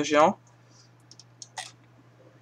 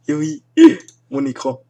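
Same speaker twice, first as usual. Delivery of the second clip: laughing; 12 semitones higher, 8 dB louder than usual. Real, not acted. Laughing at his own screen.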